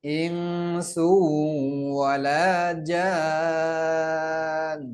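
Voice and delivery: slow, melodic tajweed chant; Quran recitation. Shown as a demonstration. Teacher chanting a verse for students to repeat, slow and melodic. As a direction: chant each word slowly so students can follow. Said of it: "একটু কঠিন আছে".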